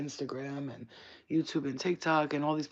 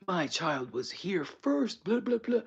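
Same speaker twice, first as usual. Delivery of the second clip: drawn-out complaint rising into high blahs; mock flipping out; 3 semitones higher, slower than usual. Imitating guy in the ride line flipping out, mock outrage. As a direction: imitate an indignant parent, slowly. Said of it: "starts flipping out".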